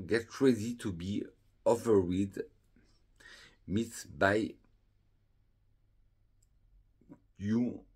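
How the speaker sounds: reading English text with a strong French accent. Real, not acted. Reading the English welcome card to viewers in a French accent. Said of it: "désolé pour mon accent anglais".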